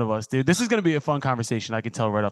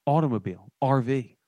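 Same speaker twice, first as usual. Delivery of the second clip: sponsor ad read. Acted. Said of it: "This is more of the off-the-cuff one".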